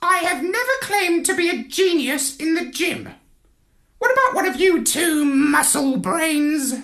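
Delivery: high squawky parrot voice, lofty; a lecturing bird looking down its beak; haughty parrot. A narrator's reading. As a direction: parrot correcting Marlowe, high and superior. Parrot voice held.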